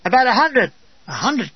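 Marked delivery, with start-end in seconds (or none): 1.1-1.5 incredulous echo. Retold or imitated. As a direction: echo hundred in disbelief.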